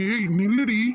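calling out. Acted. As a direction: call her back as she runs.

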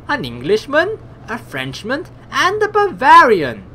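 mock your captives with relish; amused pirate captain.

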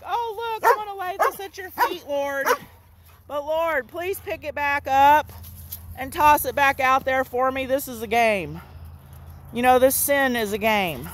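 a believer begging the Lord to play; lightly voiced sinner begging to play fetch; mock pleading believer. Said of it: "it's like".

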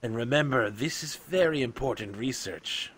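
measured, otherworldly researcher; scholarly creature. Acted. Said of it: "He's like".

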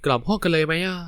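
plain reading voice

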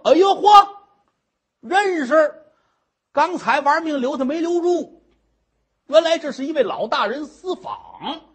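high, loud gasp of recognition; shocked recognition. Acted. Nun recognizes the official, loud and startled. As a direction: she looks up and realizes who he is.

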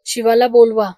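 a loud, cutting shout; wife shouting over her husband. A narrator's reading. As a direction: yell the order. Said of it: "Rakhma ओरडली".

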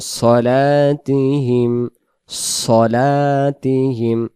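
সলাতিহিম with a dark সদ and rounded vowel; heavy emphatic s. Shown as a demonstration. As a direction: keep it heavy, not সালাতিহিম. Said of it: "সালাতিহিম পড়ব না".

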